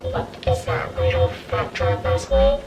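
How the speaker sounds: high, squeaky teasing voice; mocking friend voice. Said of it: "everybody's like".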